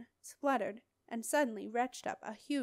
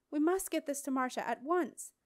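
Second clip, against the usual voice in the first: eager urgency; 4 semitones higher, 4 dB louder than usual. Acted. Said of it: "he said excitedly".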